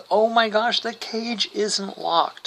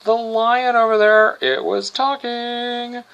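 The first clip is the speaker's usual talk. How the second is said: put-on excited kids; 7 semitones higher, slower than usual. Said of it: "come running back going".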